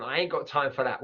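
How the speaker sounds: Cockney "ain't got time" with glottal Ts; Cockney line; Cockney accent. Shown as a demonstration. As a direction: say it broad Cockney. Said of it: "let's break this down".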